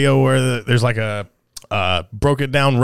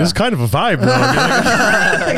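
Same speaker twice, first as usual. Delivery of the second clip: mock airy vibe; 7 semitones higher, slower than usual. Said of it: "those people on Twitter who are like".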